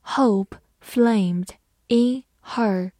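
slow chunked reading for learners; phrased slow reading. Shown as a demonstration. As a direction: split into chunks with a pause after flamed. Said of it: "好，慢读一遍。".

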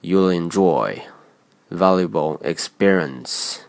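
You'll enJOY, valuable exPErience, stressed syllables drawn out; slow, deliberate demo leaning on "joy" and "pe" in "You'll enjoy valuable experience"; exaggerated second-word stress. Shown as a demonstration. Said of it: "有意夸张地重读第二个单词的重读音节".

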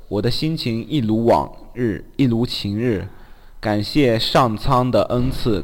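slow, lyrical reading voice; slow recital. Acted. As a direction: read it like a prose poem. Reads listener's message aloud.

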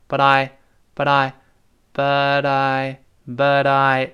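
"but I" linked, t softened to a light d; voiced flap t. Shown as a demonstration. Teacher drills the linking, "but I" with voiced t. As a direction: flap the t so "but I" sounds like buh-dai. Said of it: "t再轻轻浊化".

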